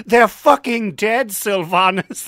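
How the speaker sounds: laughing in disbelief; half-laughing, incredulous. Real, not acted.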